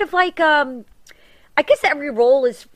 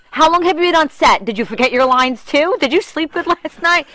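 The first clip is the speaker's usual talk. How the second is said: tag; 3 semitones higher, 4 dB louder than usual. Retold or imitated. Acting out her impatient scolding.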